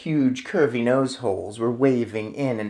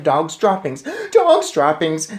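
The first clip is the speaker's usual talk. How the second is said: shouted; 3 semitones higher, 3 dB louder than usual. Acted. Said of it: "they shouted".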